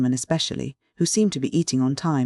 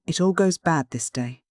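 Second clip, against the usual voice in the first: despairing exclamation; 3 semitones higher than usual. A narrator's reading. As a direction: give up on the lesson in mild despair. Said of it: "followed by the despairing exclamation".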